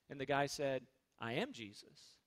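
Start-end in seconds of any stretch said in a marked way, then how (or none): 1.2-2.2 low, very soft retold reply; soft, low punchline; quiet deadpan claim. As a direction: imitate a stranger's hushed claim. Retold mental patient's claim, anecdote punchline.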